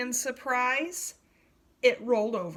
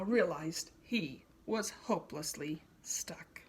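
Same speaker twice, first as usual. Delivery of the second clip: whispered, fading to nothing; 6 semitones lower, 6 dB quieter than usual. A narrator's reading. Narrator telling listeners the rhino is stuck, whispered. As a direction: hush it like a secret.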